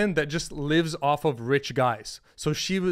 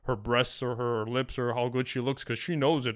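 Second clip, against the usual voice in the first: fast, softer, lower mocking voice; mock try-hard guy; 5 semitones lower, 6 dB quieter than usual. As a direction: parody the guy holding back. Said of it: "Other guys are probably like".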